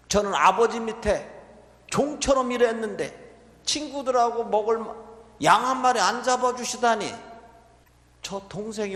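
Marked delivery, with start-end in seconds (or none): 0.1-7.1 put-on higher and louder, a grudging older brother; resentful complaint. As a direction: throw the grievance back at the father. Older son complains to the father.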